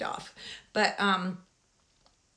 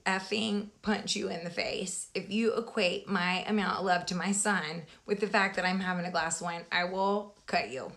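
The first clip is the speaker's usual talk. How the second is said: mock threat. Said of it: "And I'm like".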